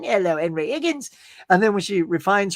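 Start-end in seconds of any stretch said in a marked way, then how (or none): 0.0-1.1 Cockney h-dropping. Retold or imitated. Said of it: "as the street urchin".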